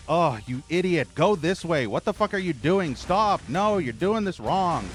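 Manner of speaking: mocking backseater. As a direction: mimic a bossy viewer scolding the streamer. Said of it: "acting like".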